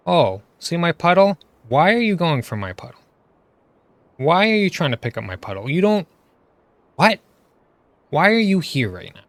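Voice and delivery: mock the healer who grabs your puddle in a fake-innocent whine; mocking the water player. Streamer mocks the healer who stole his puddle, mock whiny voice. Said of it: "Guess what the water player tries to do".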